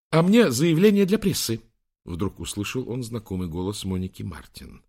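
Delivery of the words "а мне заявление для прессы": high loud woman's voice; loud retort. Acted. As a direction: fire back loudly. Martin retorts loudly. (громкая резкая реплика)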